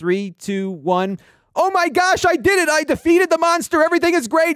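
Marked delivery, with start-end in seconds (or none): 1.6-4.5 fake excited scream, very high, shrieking, over the top. Testing a microphone's clip guard by replicating a game moment: screaming excitedly. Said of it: "scream into the microphone now to kinda replicate".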